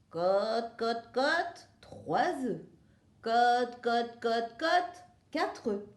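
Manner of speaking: clucky hen counting her eggs; sing-song barnyard clucks; hen clucking. Acted. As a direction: cluck out each cote like a proud hen. Hen counting the eggs she lays.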